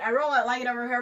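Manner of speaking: light American accent demo. Shown as a demonstration. Girl switching to American for the host. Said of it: "Uh, American".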